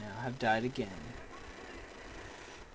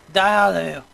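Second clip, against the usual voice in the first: very loud, higher attack cry; fierce gamer shout; battle shout; 4 semitones higher, 13 dB louder than usual. Real, not acted. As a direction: yell it at the enemies. Shooting enemies in game.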